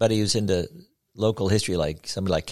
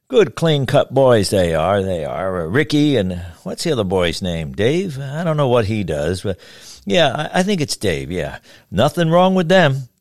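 easygoing barber gossip, a touch louder; chatty old barber; 3 semitones higher, 5 dB louder than usual. Acted. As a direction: ramble on like a friendly old barber. Barber Joe chatting, voiced.

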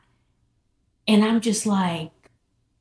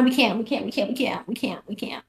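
from normal down to a whisper; fading to whisper; 5 dB quieter, faster than usual. Retold or imitated. Telling her friend they can't go on, fading to a whisper. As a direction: let it die to a whisper.

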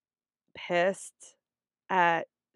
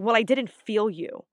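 mild imitated attitude; 2 semitones higher, 5 dB louder than usual. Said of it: "she got an attitude".

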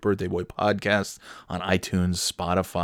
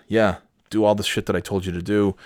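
normal talking voice

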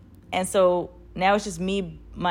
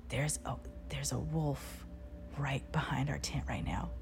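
slow, very hushed warning; retold whisper; 4 semitones lower, 13 dB quieter than usual. Ex warns of a wolf behind tent, slow whisper. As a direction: whisper it so nothing outside hears. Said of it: "And they're whispering".

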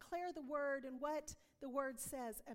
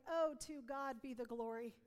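louder, rising praise of God; joyful praise; 4 dB louder than usual. Retold or imitated. Hearing the cancer is gone, joyful louder praise. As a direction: celebrate the healing aloud. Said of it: "And I was like".

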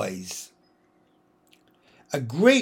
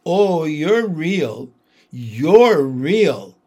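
overjoyed relief; 7 dB louder, much slower than usual. Acted. Lucy embracing returned Aslan.

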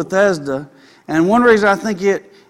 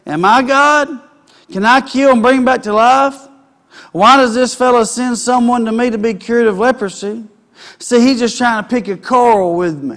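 higher, louder indignant outcry from a king; outraged king; 3 semitones higher, 3 dB louder than usual. Acted. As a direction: protest loudly like an insulted king. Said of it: "he tore his robes and said".

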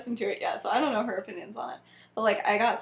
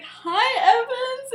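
high greeting; 14 semitones higher, 6 dB louder, much slower than usual. Acted. James greeting Lily.

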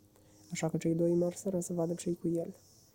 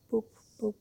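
higher, far-off horn sound; dreamy poop-poop; 4 semitones higher than usual. A narrator's reading. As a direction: murmur the horn in ecstasy. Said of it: "ton visător".

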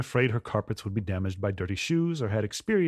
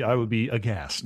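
Fraser Crane voice. Acted. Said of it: "To sound exactly like Fraser Crane".

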